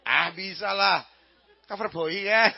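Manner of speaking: mock Javanese, heavy aspirated B in "boy"; Javanese accent. Javanese man claiming he can say it, mock Javanese accent. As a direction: play a confident Javanese who says "Cover boy" thickly. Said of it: "Bilang orang Jawa".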